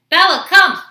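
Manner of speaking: loud, high, falling call; calling a dog. Real, not acted. Owner summons dog Bella into the room, calling out. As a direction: call the dog over sharply.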